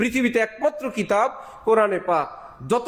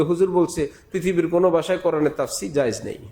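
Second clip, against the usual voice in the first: fast, lower mock gossip; mocking a careless listener; 5 semitones lower, faster than usual. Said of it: "জুমার পরে গিয়ে বলবে". (দ্রুত ব্যঙ্গের সুরে)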